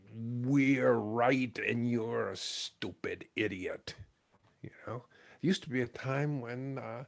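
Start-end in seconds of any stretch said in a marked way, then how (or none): 0.1-3.9 slow, drawn-out mock scorn; mock contempt. Speaker mimicking us-versus-them thinkers, mock contempt. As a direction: draw out each word with mock superiority.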